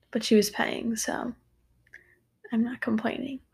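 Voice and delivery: whispered under the breath; whispered aside. Real, not acted. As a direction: drop to a whisper. Mumbled aside about mom paying.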